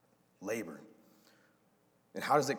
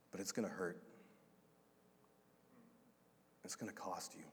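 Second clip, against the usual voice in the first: tender sorrow; 4 dB quieter than usual. Retold or imitated. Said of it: "He says to the woman".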